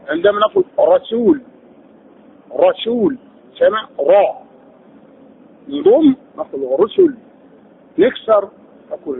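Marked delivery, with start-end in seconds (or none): 2.5-3.2 رسول with a heavy, full-mouthed R. Shown as a demonstration. Teacher demonstrates opening ra to students, R in رسول heavy. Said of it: "لو كان مفتوحا تلوناه مفخما". 6.8-7.1 رسل with a thick, heavy R. Shown as a demonstration. Teacher demonstrates damma to students, R in رسل heavy. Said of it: "مضموما تلوناه مفخما".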